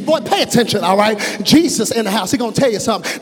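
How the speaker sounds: put-on firm mom telling the boy to listen; scolding mama.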